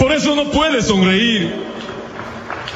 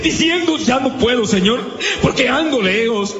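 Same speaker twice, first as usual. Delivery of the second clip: impassioned preacher acting out a desperate plea; fervent cries, each one lifted high; Bartimeo's pleading cry; 5 semitones higher than usual. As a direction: plead to the Lord in a surging litany. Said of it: "Allí andaba el grito de Sa-, de Bartimeo".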